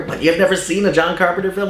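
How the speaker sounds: high, disbelieving playground outburst; incredulous kid. Retold or imitated. Kid fan shocked a friend never saw Carpenter, incredulous. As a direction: act stunned that they haven't seen it. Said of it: "I would just go nuts".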